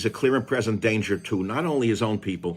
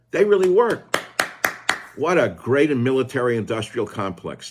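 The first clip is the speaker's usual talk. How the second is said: sarcastic; 2 semitones higher than usual. Real, not acted. Sarcasm about missile makers.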